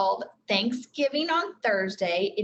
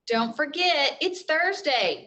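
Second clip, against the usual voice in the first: reminding mother; 5 semitones higher, slower than usual. Acted. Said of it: "said their mother".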